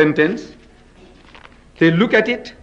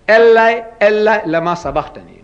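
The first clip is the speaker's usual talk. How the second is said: crying out; 2 semitones higher than usual. Retold or imitated. Preacher acting out the cry from the cross, raised voice. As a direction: cry the name out in anguish. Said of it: "Who is he crying to?".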